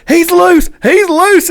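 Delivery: high-pitched panicked call; alarmed cry. Retold or imitated. Buddy seeing the trout come off the hook, alarmed cry. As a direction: imitate a buddy hollering in alarm.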